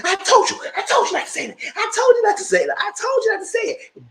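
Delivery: high, loud yelled threat; angry shout. Retold or imitated. Retold fighter yelling at the girl who said the word. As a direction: yell it at her, over and over.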